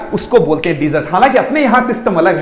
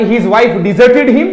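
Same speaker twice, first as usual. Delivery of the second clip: slow, word by word; slow example; much slower than usual. Shown as a demonstration. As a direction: read the example out slowly. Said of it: "teacher reads example sentence".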